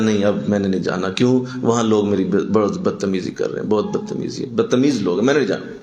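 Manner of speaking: mildly dejected grumbling, imitated; disheartened sulk. Preacher quotes a discouraged brother back home, mildly sulky. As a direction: lightly act a discouraged man giving up. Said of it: "بد دل ہو کے اور مایوس ہو کے".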